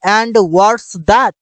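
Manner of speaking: stretched out very slowly; slow clear English. Shown as a demonstration. Teacher giving the English phrase slowly. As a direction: drill it word by word. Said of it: "इसका अंग्रेजी होगा".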